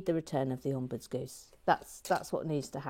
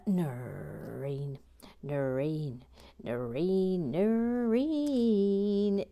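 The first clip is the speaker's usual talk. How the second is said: playful name-calling; much slower than usual. Pretend. Host hailing viewer Noreen, drawn-out playful calling that builds. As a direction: stretch the name further each time.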